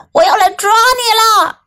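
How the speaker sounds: high-pitched theatrical threat; high ghostly taunt; ghost's taunting cry. A narrator's reading. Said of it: "一只鬼叫嚣地说".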